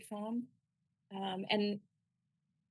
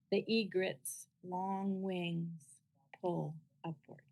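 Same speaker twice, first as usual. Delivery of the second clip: measured poem recitation with long pauses; unhurried, deliberate poetry-reading voice; slower than usual. Acted. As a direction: read it as verse, slowly, phrase by phrase. Reads own poem aloud.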